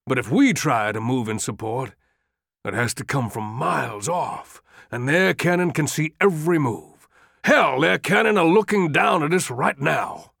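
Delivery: rising, insistent appeal; urgent pleading. Acted. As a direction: press the general harder and harder. Longstreet pleading urgently with Lee.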